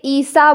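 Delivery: ईसा with both vowels held long; drawn-out vowels. Shown as a demonstration. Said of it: "मैंने थोड़ा खींच के पढ़ा है".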